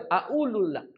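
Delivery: Egyptian accent, glottal stop in "au lulak"; logat Mesir. Shown as a demonstration. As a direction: drop the q Egyptian-style in "au lulak". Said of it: "Kalau orang Mesir". (logat Mesir, qaf jadi hamzah pada "au lulak")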